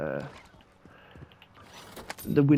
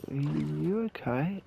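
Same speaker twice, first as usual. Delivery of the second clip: tentative; 3 semitones higher than usual. Retold or imitated. Retold wary question to angry man.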